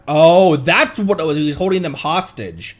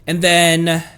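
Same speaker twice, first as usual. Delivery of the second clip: ordinary talk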